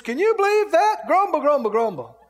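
playing a sour viewer; mock outrage. Imitating TV watcher.

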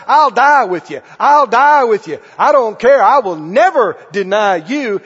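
boastful, loud promise of loyalty; acted Peter swearing loyalty; loud vow. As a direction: declare it loudly to everyone.

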